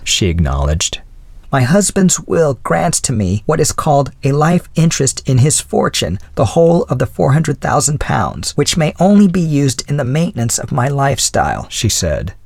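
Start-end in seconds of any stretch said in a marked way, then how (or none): 1.5-11.7 put-on lightly raised voice of a gracious old lady; a hint of the old widow's voice; elderly lady voice. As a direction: speak as a kindly older woman. Mrs Callender explains.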